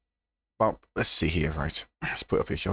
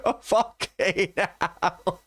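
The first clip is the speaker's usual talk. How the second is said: laughing; 6 semitones higher, much slower than usual. Real, not acted. Laughing at a video.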